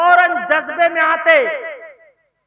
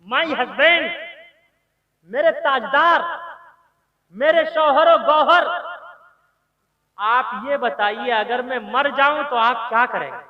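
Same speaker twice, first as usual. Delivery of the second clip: loving. Retold or imitated. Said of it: "बड़े प्रेम से कहा".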